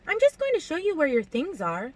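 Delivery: high, light innocent voice; airily blameless, high-voiced. A narrator's reading. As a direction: protest innocence, pitched well up. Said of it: "she said innocently".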